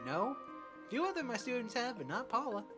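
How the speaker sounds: put-on East Asian accent. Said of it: "I'm giving him this accent, this voice".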